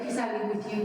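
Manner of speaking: quick, tossed-off version of the quote; casual, offhand. Retold or imitated. Showing how the Lord didn't say it, casual and quick. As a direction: run through it lightly, no weight. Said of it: "He didn't say, like".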